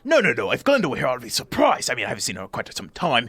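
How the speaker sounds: lightly voiced nervous host, fussing and apologetic; a flustered host invites the strangers in; fussy little host. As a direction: ramble politely, tripping over words. Bock on Glenda.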